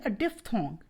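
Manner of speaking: DIPHTHONG said with PH as an F sound; diphthong pronunciation. Shown as a demonstration. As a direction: model the word diphthong, PH sounding as F. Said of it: "इसको आप पढ़ेंगे". (diphthong का उच्चारण, PH की आवाज़ एफ़ जैसी)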